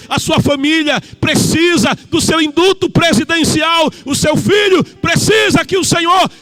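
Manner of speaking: impassioned plea. Acted. Sermon climax, boy pleads for father.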